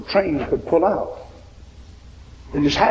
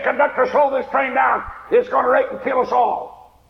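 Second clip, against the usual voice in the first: frantic woman; 8 semitones higher than usual. Retold or imitated. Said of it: "She got frantic".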